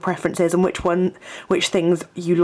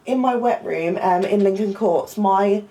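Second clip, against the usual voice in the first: higher, polite caller voice; hesitant, polite request on the phone; polite phone manner; 4 semitones higher, slower than usual. Real, not acted. Student ringing the accommodation office about a blocked drain, polite.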